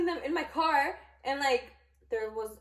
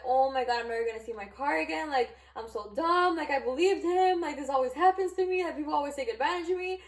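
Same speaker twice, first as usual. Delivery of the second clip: retold freaking out; 3 semitones higher than usual. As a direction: replay a fretful self-blaming meltdown. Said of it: "freaking out".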